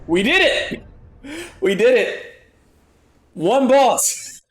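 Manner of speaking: high, laughing victory shout; victory cheer. Real, not acted. Boss defeated, celebrating.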